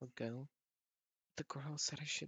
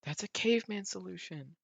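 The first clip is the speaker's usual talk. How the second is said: loud, higher, incredulous outburst; stunned exclaim; 4 semitones higher, 9 dB louder than usual. Real, not acted. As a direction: blurt it out in disbelief. Reacting to absurd game event.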